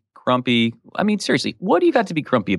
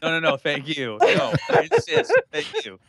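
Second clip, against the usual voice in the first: mock polite laughing; 3 semitones higher than usual. Overly polite mock exchange.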